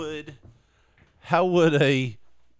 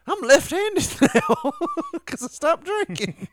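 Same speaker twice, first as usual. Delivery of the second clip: mock amazed. Imagined friend's new discovery.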